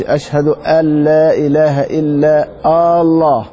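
الله said as آالله with a drawn opening hamza; wrong long hamza on Allah. Shown as a demonstration. Teacher showing the forbidden stretched الله. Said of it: "يعني ما يقولش".

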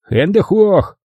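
high, sharp mock military command; playful order in fake German. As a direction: snap it like a parody soldier. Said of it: "скомандовал Робби".

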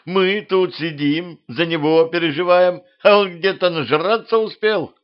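high, rising indignant rant. A narrator's reading. Queen berates the drunk old man, high indignant rant.

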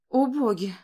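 gasped exclamation. A narrator's reading. Grandmother gasps at the revived dog, astonished. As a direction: gasp at the sight. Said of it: "ахнула Констанс".

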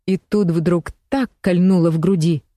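plain reading voice

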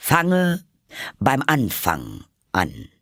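slow, weighty royal order; earnest command. Acted. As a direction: instruct gravely, stressing each step. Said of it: "sagte der König ernsthaft".

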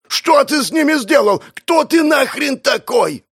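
panicked yell. Acted. Bald bandit yells at the strange magic, panicked. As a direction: scream it in terror.

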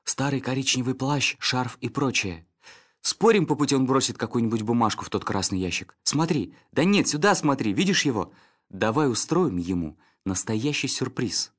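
excited terrier rattling on; excited dog Snitter. Acted. Snitter voiced, growing excited.

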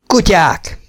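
a high scornful cry at the mutineers; angry shout. A narrator's reading. The sergeant curses the mutineers as dogs: high angry shout. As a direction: spit it out high, waking in rage. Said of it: "kiáltott az őrmester".

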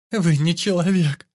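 high, slow, tearful cry; sobbed. A narrator's reading. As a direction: sob it out in despair. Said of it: "Схлипнула Росс". (всхлипывая, высоко и медленно)

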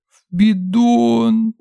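very high, drawn-out, tearful; sobbing wail. A narrator's reading. Little girl confessing she hid the money, tearful. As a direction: wail it out on the verge of tears. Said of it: "всхлипнула мелкая".

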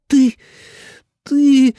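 high, loud stammer of embarrassment; stutter, too flustered to speak; stammering girl. A narrator's reading. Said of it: "А Цинь даже заикаться начала". (заикаясь от смущения, высоко и громко)

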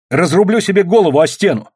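high, frantic cry; desperate shout. A narrator's reading. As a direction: shout in desperation from behind a door. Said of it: "крикнула Катя".

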